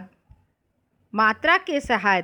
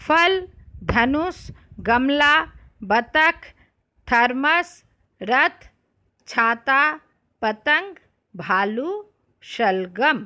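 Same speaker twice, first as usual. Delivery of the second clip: reading words to class; 4 semitones higher, slower than usual. Shown as a demonstration. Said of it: "इसको मैं पढ़ती हूँ, आप ध्यान से सुनिए".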